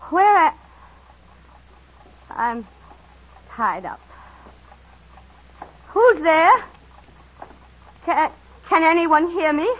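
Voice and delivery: frightened. Acted. Waking tied up in dark.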